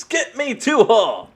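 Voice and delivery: high, slow, drawn-out witch order; wicked witch voice. Acted. Witch commands her flying monkeys.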